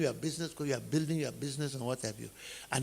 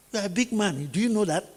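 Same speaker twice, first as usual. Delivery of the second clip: 1 mock hype; 5 semitones higher, 6 dB louder than usual. Mocking friend urges bigger car.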